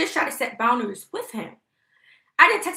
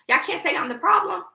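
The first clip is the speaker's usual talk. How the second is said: raised high, pointed declaration; defiant; 7 semitones higher than usual. Real, not acted. New mother defying online haters, high and pointed. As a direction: throw it at the haters, voice up.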